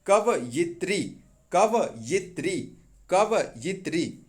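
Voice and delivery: कवयित्री said slowly, each syllable kव-यि-त्री drawn out; slow spelled-out pronunciation. Shown as a demonstration. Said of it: "ऐसे याद रखिएगा".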